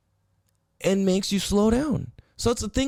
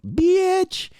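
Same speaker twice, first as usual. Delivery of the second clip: mock insult; 11 semitones higher, 4 dB louder than usual. Real, not acted. Punchline insult after rant.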